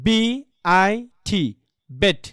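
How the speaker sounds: letters one by one, then "বেট" with a short vowel; spelling aloud. Shown as a demonstration. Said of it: "মানে spelling করি". (বানান করে শেষে "বেট")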